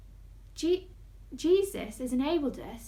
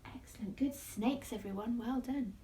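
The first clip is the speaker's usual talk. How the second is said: whispered praise; 6 dB quieter than usual. Acted. Praising kids softly.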